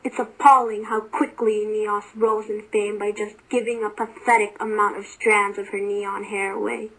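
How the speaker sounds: lightly acted rant; contained, indignant complaint; Erebus. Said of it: "Erebus furiously ranted".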